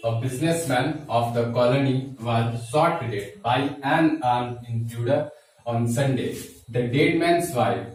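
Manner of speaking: slow, measured read-aloud in separated phrases; slow dictation reading. Real, not acted. Teacher rereads the corrected question to students, slow dictation. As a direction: read the sentence out slowly, word by word.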